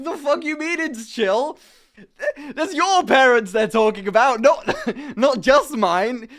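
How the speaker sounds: high, indignant retort. Retold or imitated. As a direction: snap back in disbelief. Indignant at brother.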